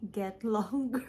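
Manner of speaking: a quick laugh through the words. Real, not acted. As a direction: chuckle as you say it. Laughs at the chapter growing.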